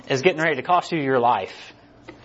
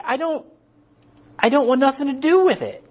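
mock angry Jonah; 9 semitones higher than usual. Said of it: "He is so hacked off".

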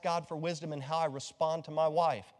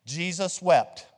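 slow, drawn-out recitation for the class to repeat; slow demo recitation; 3 dB louder, much slower than usual. Shown as a demonstration. Pastor leading the congregation in call and repeat, slow and measured. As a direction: say it slowly so they can echo it. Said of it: "Watch me and then repeat".

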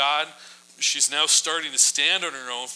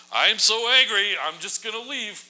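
much higher and louder, hammed-up fuming; mock angry; 8 semitones higher, 5 dB louder than usual. The king storming out of the banquet, hammed-up anger. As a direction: play the huffy guy storming off. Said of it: "he just ups and leaves".

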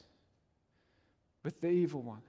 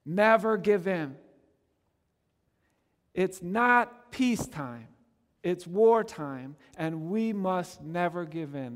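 rousing, firm call never to yield; rally the troops, loud and firm; stirring exhortation; 4 dB louder, slower than usual. Retold or imitated. Preacher quoting Churchill's rallying cry, stirring. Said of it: "a stirring exhortation".

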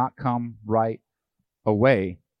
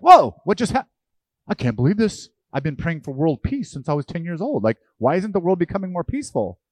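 much higher and louder, hammed-up disbelief; mock shock; 6 semitones higher, 7 dB louder than usual. Preacher mocking believers shocked by world news, hammed-up panic. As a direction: play the flustered believer in over-the-top alarm. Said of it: "we shouldn't be like".

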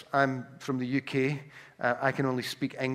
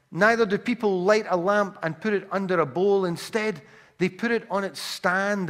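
raised, emphatic Bible reading to a congregation; higher-pitched preacher's reading voice; scripture reading; 3 semitones higher than usual. Acted. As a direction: proclaim the verses with weight. Reads scripture aloud to congregation.

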